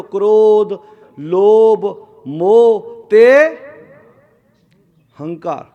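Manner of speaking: loud, drawn-out list items for all to repeat; prompting a congregation to join in; leading a group response. Real, not acted. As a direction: call out each word and stretch it for the crowd. Leads congregation in saying the list.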